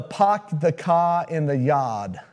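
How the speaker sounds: slow, mock Boston accent; a Southerner's playful stab at Boston accent; attempted Boston accent. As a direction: drop the r's in a drawn-out Boston accent. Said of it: "This Southern boy can't say that".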